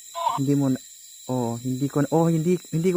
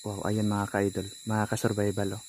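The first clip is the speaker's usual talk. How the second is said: hushed awe; 6 semitones lower, 9 dB quieter than usual. Real, not acted. Hushed report of something moving.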